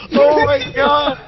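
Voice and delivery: shouting. Real, not acted. Watching him bang his head.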